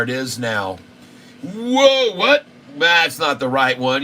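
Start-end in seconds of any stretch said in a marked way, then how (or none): 1.4-2.4 startled high whoa; sudden shocked yelp; surprised. Real, not acted. Shocked at stock price.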